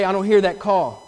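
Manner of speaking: light joking brush-off; jokingly. Retold or imitated. To the deacons, dodging the call, jokingly. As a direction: toss it off with a grin in the voice. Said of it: "and I'd jokingly say".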